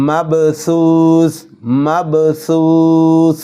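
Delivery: মাবসুস with a bounced b, drawn out; qalqala on ba. Shown as a demonstration. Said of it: "বার উপর কলকলা হবে". (মাবসুস-এ বার উপর কলকলা)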